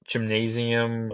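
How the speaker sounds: gymnasium drawn out slowly. Shown as a demonstration. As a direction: stretch out gymnasium syllable by syllable.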